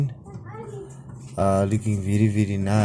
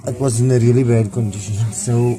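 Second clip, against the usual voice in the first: talking while lying on your back; strained voice from under the car. Real, not acted. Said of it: "sorry, I'm laying under this car".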